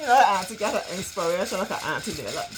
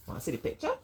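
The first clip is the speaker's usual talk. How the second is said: whisper; 14 semitones higher, 9 dB quieter, much faster than usual. Acted. Teasing the kids.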